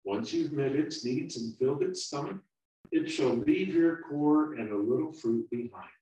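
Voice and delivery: calm the frightened little one down; soothing. Acted.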